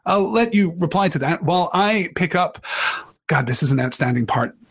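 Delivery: ordinary talk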